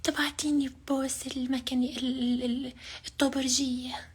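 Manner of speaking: man doing a woman's voice. Acted. Fake girl asks for kiss.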